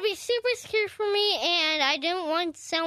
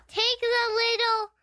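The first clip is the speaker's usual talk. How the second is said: Pennywise clown voice; 4 semitones higher than usual. Acted. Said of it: "your Pennywise dancing clown impression".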